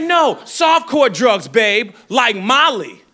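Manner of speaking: lightly voiced girlfriend, drawn-out and slow; slow mock girlfriend. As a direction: draw it out like a dreamy partygoer. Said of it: "She said".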